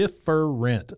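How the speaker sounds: different broken into three slow syllables; said like three words. Retold or imitated. Mother tells her son he is special, different split into three syllables. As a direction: spell out different as dif-fer-ent, one beat each. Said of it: "like it's three words".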